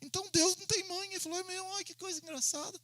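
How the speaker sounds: quiet, high marvelling student; amazed student. Retold or imitated. Pastor voices student's wonder. (aluno maravilhado, voz aguda e baixa)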